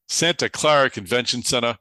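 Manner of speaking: "Clara" said the Boston way, like "Clera", in a Boston accent. Real, not acted. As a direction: let the Boston accent slip out on "Santa Clara". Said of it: "There's my Boston accent".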